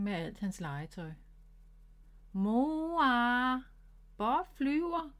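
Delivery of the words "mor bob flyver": higher, excited call to mother; a child calling mum. Acted. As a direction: shout for mum in alarm. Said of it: "råbte hun".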